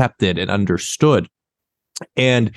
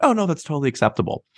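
sarcastic; 5 semitones higher, 4 dB quieter, faster than usual. Retold or imitated. Sarcastic double standard.

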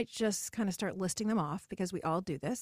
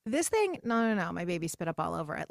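self-deprecating brush-off; 3 semitones lower than usual. Retold or imitated. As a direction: wave off the compliment, lightly mocking. Woman brushing off a compliment.

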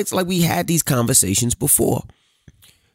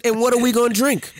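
incredulous sarcasm; 10 semitones higher, faster than usual. Retold or imitated. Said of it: "I said".

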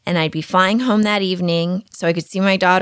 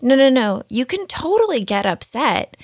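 higher, emphatic objection; imagined protest; 6 semitones higher than usual. Retold or imitated. Mother answering the teacher's phrase, higher protest. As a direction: talk back to the rule, pitched up.

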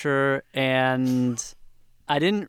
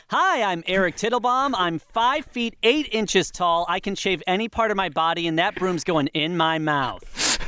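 higher, determined, punchy slate; defiant slate; 4 semitones higher than usual. Acted. Actor slates again to show the casting director his commitment, defiant. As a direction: prove you will do anything for the role.

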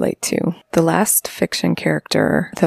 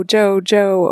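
imitating a call; 4 semitones higher than usual. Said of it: "he's calling Jo".

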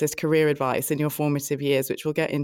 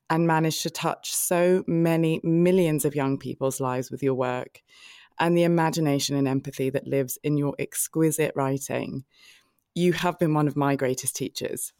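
tearful. Real, not acted. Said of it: "As if I start crying".

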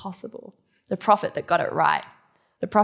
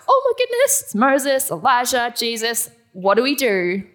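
excited panic; 5 semitones higher, 7 dB louder than usual. Retold or imitated. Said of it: "being like".

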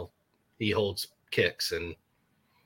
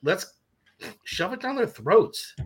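excited hype; 7 semitones higher, slower than usual. Real, not acted. Hyped about going for it.

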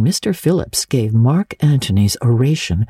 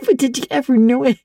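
put-on fast, high giggly girl; excited girl voice; 10 semitones higher, faster than usual. A narrator's reading. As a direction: gasp it out mid-laugh. The speaker's character voice.

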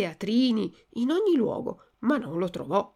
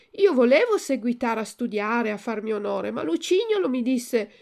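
higher, louder puppet making excuses; pleading Pinocchio; 4 semitones higher, 5 dB louder than usual. Acted. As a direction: defend yourself, voice raised and higher. Pinocchio voiced in story.

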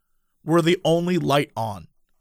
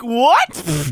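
retold shock; 4 semitones higher than usual. Shock at Xanax confession.

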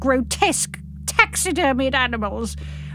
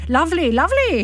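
mild burbling; 5 semitones higher than usual. Acted. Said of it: "he's burbling".

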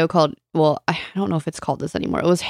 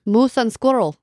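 Boris Badenov voice; 4 semitones higher than usual. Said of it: "Rocky and Bullwinkle".

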